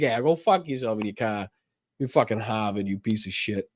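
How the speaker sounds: lightly played-up Boston accent; casual swearing in a Boston accent. Host showing his untamed talk, Boston accent. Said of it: "that's how I talk".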